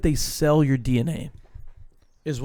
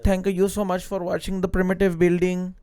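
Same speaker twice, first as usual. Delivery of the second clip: mock YouTuber intro; 2 semitones higher than usual.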